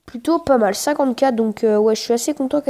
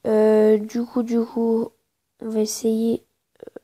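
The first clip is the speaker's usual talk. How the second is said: whispering; slower than usual. Real, not acted. Whispered aside during the match.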